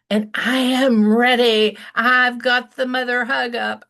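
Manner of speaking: ready to pounce with a hug; bursting with readiness; excited. Real, not acted.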